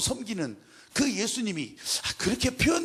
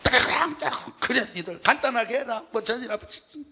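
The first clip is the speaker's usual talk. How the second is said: sarcastic mother-in-law; 2 semitones higher, 3 dB louder than usual. Retold or imitated. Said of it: "그 얘기를 대놓고 하는 것이 아니라".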